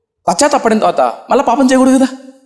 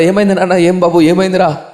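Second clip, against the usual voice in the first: tender concern; 3 semitones lower than usual. Acted. Pastor gently lifts crying youth.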